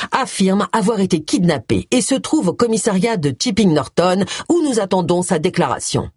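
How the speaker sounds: lightly voiced TV news presenter; parody news anchor. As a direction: read it like a breaking news bulletin. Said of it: "la voix du présentateur télé".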